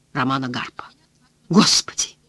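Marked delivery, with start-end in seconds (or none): 1.5-2.2 breathless, voiceless gasp of shock; stunned gasp. A narrator's reading. Cleaner bursting into office, gasping in shock. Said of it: "только и смогла выговорить она".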